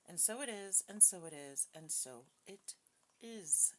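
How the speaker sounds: solemn, measured invocation to the divine; prayer. Real, not acted. Reader opening the session prays to the divine, solemn and measured. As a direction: speak it as a reverent group prayer. Says the prayer before reading.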